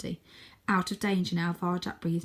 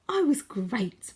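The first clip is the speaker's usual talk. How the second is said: beaming; 4 semitones higher, 4 dB louder, much slower than usual. Acted. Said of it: "beamed Tam".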